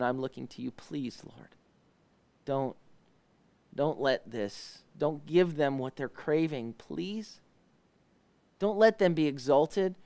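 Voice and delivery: quiet, earnest plea to the Lord; hushed prayerful pleading; soft pleading prayer. Acted. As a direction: beg God softly for help.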